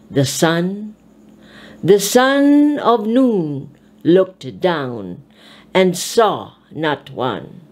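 measured, recited reading of a poem; recited verse; poem recitation. Acted. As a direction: read it like a poem.

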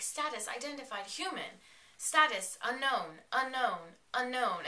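imitated computer status alert; scanner readout. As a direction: read it out like a scanning device.

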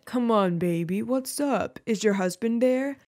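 lightly voiced older sweetheart; a hint of a put-on mature caller; funny older-man accent. Joe prank-calling the teacher as her lover, mock-older accent. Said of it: "he'd put on a funny accent".

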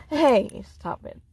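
sharp loud scold; calling dog off. Real, not acted. Owner interrupts to tell dog to stop, loud scold. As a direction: cut in loudly to stop a dog.

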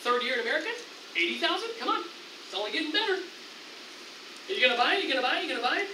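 lightly acted coaxing sales patter; a hint of a persistent dealer; car salesman. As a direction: nudge the buyer with rising questions. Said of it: "It's kinda like a car salesman".

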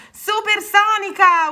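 high, loud, drawn-out whoop; long gleeful cry; exhilarated yell. A narrator's reading. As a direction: yell it like speeding downhill. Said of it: "urlò Rana".

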